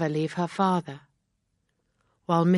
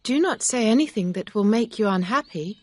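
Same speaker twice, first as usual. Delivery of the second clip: high, louder anxious plea; cried out; 6 semitones higher, 5 dB louder than usual. A narrator's reading. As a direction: cry out to stop him speaking. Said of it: "Emma cried".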